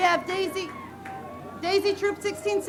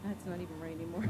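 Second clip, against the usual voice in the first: breathless after hurrying over; talking between quick breaths; 13 semitones lower, 16 dB quieter, faster than usual. Real, not acted. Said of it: "I'm out of breath".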